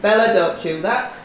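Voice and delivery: harsh tone. Real, not acted. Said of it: "a harsh tone in the voice".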